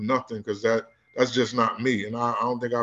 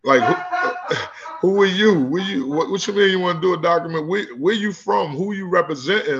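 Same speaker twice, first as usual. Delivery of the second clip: suspicious street sense; 4 semitones higher than usual. Retold or imitated. Coach grilling the woman who wants to film him, suspicious and half-laughing. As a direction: size her up, incredulous and wary. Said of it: "now my street sense is kicking in".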